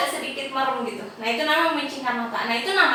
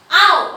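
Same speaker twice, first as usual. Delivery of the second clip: a short acted yelp of pain, a bit louder; mock ouch; 4 semitones higher, 7 dB louder than usual. Teacher acting out a student's yelp when hit, mock ouch. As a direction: play-act being hit, yelping. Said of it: "pasti kamu langsung bilang".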